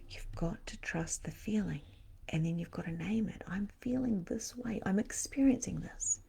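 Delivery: soft hushed whisper, no voice. Shown as a demonstration. Psychic teaching viewers to name feelings, in a whisper. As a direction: breathe the words out in a whisper.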